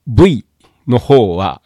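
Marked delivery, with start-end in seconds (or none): 0.1-0.4 V as "bui", b sound plus two vowels; Japanese katakana V. Shown as a demonstration. Teacher showing what not to say, V said as "bui". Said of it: "いわゆるV".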